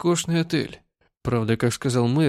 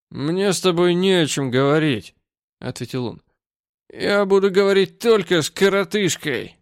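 put-on angry drunk; 4 semitones higher, 3 dB louder than usual. Drunk man dismisses the boss.

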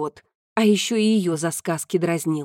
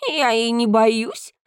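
slow, slightly higher cat voice; a hint of a proud cat; lightly voiced cat; 3 semitones higher, slower than usual. Narrator voices the talking cat.

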